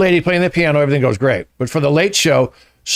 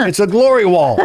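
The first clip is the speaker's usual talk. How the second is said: amused punchline through a laugh; higher, chuckling delivery; 4 semitones higher than usual. Real, not acted. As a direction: say it while laughing. Laughing at own crude joke.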